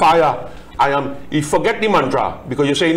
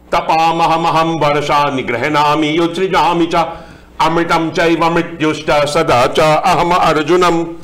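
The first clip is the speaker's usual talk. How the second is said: Sanskrit verse recitation; 3 semitones higher than usual. Acted. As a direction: intone the Sanskrit verse, steady and measured.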